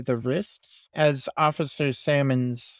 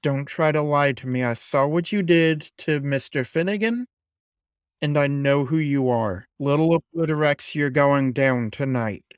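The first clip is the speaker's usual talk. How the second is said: hostile threat. Acted. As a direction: threaten her like a fighter. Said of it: "looks at you and says".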